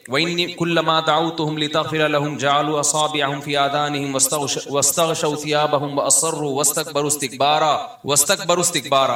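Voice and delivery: measured Quranic recitation in Arabic. Acted. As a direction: recite the verses with tajweed. Recites Quran verses of Nuh.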